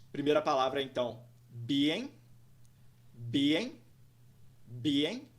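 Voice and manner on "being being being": "being" in two parts, BEE-ing, rising at the end; teacher's two-part model of "being", lilting up; two syllables. Shown as a demonstration. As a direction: say "being" slowly with an upturn on -ing. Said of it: "Duas sílabas, duas partes".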